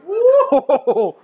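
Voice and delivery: loud laughing whoop; excited whoop. Real, not acted. Cheering the punchline.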